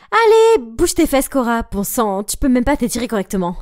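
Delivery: cri aigu de capitaine tyrannique; cheerleader bossy. Acted. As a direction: aboie les ordres à sa sœur. Sœur capitaine crie à l'entraînement. (capitaine qui crie sur sa sœur à l'entraînement, voix forte)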